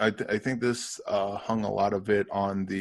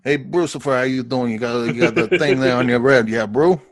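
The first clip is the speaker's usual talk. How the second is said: Sue's voice; 6 dB louder than usual. Retold or imitated. Co-host imitates the character Sue teasing his buddy, louder bro voice. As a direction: call him Brucifer like an easygoing buddy. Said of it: "a little bit of accent".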